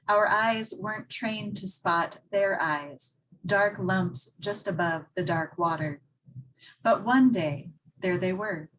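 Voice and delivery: measured poem recital with pauses between phrases; deliberate, evenly phrased verse reading; poetry reading. Acted. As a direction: read your poem to an audience, line by line. Reads own poem aloud.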